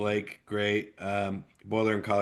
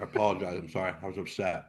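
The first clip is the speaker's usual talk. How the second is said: much softer, sheepish and sorry; backing down after the outburst, quietly; sheepish apology; 4 semitones lower, 9 dB quieter, faster than usual. Real, not acted. Apologizing to Tammy after his rant, quiet and sheepish.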